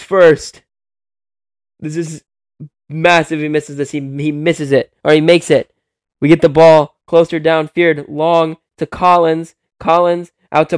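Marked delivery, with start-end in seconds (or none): 1.8-4.9 much softer, held-breath commentary; tense hush. Real, not acted. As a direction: hush it as the free throw goes up. Crucial free throw, tense hush.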